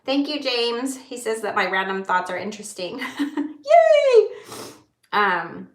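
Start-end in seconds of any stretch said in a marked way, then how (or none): 3.2-4.3 high, loud happy squeal through a laugh; a teary laughing yay; delighted squeal. Real, not acted. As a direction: squeal with joy at the compliment. Reacting to a kind comment.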